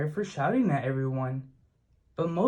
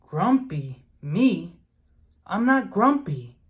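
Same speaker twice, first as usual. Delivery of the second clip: a touch of indignant ape, higher and louder; lightly voiced Jim, mildly offended; grumpy denial; 4 semitones higher, 4 dB louder than usual. A narrator's reading. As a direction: protest it, a mild huff. Jim denies being grumpy.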